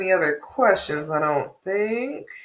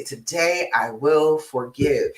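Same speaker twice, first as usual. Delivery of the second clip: slow repeat; 4 semitones lower, slower than usual. Shown as a demonstration. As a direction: let the words sink in, drawn out and gentle. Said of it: "Today I will forgive any past mistakes".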